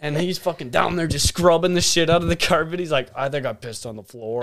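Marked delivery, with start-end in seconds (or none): 3.1-4.4 lower, softer mock admission; retold sheepish admission. Drunk friend admitting it while scrubbing, retold sheepish admission. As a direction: own up quietly, imitating the culprit.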